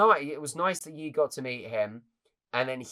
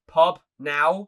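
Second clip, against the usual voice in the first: excited; 5 semitones higher, 11 dB louder than usual. Retold or imitated. Celebrating the surprise view count.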